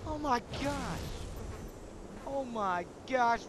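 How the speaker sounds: loud, thrilled shouting about the hammer; excited. Acted. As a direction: yell it out like a kid with a new toy. Gets the new gravity hammer.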